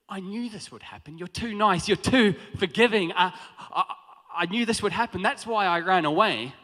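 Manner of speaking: building from muttered to loud complaint; angry Jonah. Retold or imitated. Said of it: "He says".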